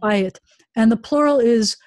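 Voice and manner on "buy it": "buy it" with the accent on "buy"; "buy it" stressed up front, falling after; stress on first syllable. Shown as a demonstration. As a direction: lean on "buy", let "it" fall away. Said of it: "the accent is on the buy".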